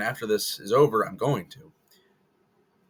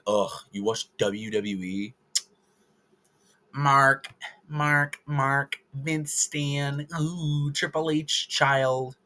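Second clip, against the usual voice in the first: sneering fan insult; 4 semitones higher, much slower than usual. Retold or imitated. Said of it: "if you're like".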